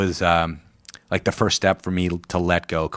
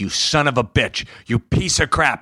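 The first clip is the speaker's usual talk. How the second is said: mock cursing, a bit higher; retelling dad's cursing as a mild mock rant; imitating angry dad; 5 semitones higher than usual. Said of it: "he started cursing me out".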